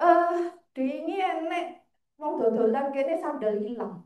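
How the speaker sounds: slowing, imitated grumble under one's breath; grumbling to oneself. Guard muttering behind a visitor about missing sandals, imitated grumbling. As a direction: imitate a man grumbling to himself. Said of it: "dia ngedumel, ngomong sendiri".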